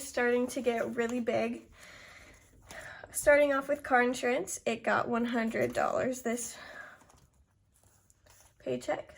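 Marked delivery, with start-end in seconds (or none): 3.1-9.1 breathless, short of air; winded, talking between breaths. Real, not acted. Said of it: "Sorry if I'm out of breath".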